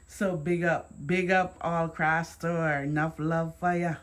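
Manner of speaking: lightly Jamaican shout-out; Jamaican accent. Real, not acted. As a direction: let a little Jamaican lilt come out. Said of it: "My Jamaican has to come out".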